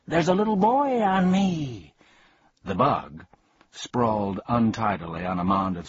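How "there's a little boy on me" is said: very high, louder frantic bee voice; panicked shout. Acted. Bee crushed under Milo, high panicked shout. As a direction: squeal in panic. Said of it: "lay there shouting".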